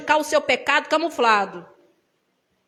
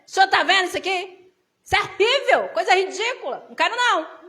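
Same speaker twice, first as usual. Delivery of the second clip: higher, laughing prayer of confession; 4 semitones higher than usual. Retold or imitated. Kneeling woman confessing envy to God, laughing. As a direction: admit it to God with a sheepish laugh. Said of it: "Dobrei o joelho no chão e falei".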